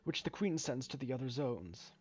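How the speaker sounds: lightly voiced game character explaining the job; a hint of a halting, polite foreman; hesitant mine worker. Reads mine worker's explanation aloud.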